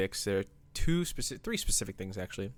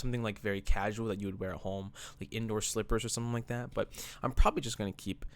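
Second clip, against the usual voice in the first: out of breath. Real, not acted. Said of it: "If I'm out of breath".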